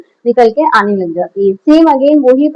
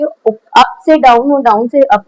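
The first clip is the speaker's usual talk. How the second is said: "Up से down और down से up" drawn out slowly, in time with the stroke; slow demo phrasing; slower than usual. Shown as a demonstration. Art teacher shows students the pencil stroke, slowly. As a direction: pace each word like the pencil moving. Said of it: "इस तरीके से चलेगी".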